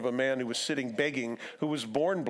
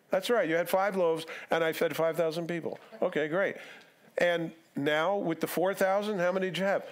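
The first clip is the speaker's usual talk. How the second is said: higher, over-patient schoolteacher delivery; leading quiz; 4 semitones higher than usual. Retold or imitated. Jesus leading disciples through the numbers, pointedly patient.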